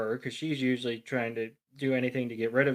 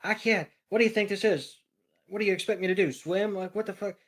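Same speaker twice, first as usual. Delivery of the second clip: higher, frantic mock duck rant; panicked Psyduck; 6 semitones higher than usual. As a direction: voice Psyduck losing it, pitched up. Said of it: "having a conniption fit".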